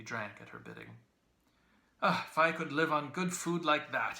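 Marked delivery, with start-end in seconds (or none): 2.0-4.2 booming, raised voice, much higher; loud. A narrator's reading. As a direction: call it out loudly to the old woman. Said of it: "he said to her somewhat loudly".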